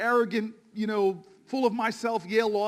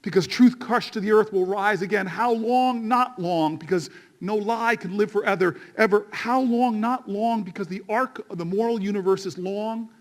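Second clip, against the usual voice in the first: a touch of preacher cadence, call and answer; rolling sermon rhythm on each refrain; quoting King, preaching. Retold or imitated. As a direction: let the questions ring and the answers land. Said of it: "He said".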